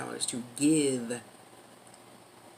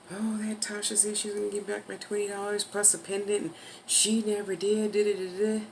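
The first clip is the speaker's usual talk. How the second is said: lightly mocked gossip, pitched up; slightly higher mock grumbling, tailing into babble; mimicking a complainer; 4 semitones higher than usual. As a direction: parody someone griping about a debt.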